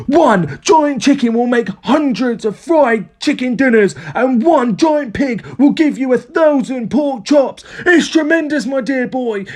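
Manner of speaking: high-pitched, emphatic rapture; excited cry. A narrator's reading. Father raving to George about giant animals, excited. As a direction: proclaim it grandly, stretching the last words. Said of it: "cried Mister Cranky".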